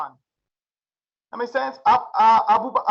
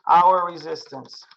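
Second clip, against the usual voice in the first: slow, drawn-out drill; 5 semitones lower, slower than usual. Shown as a demonstration. Teacher drilling the class on the term, slow and deliberate. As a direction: stretch out hour, then resistance, slowly. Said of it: "You can literally say it like that".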